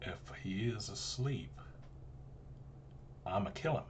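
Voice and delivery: unvoiced whispered threat. Real, not acted. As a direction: breathe it out as a whisper.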